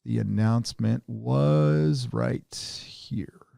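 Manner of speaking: slow whispered mutter. Real, not acted. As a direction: whisper it to yourself. Muttering while searching.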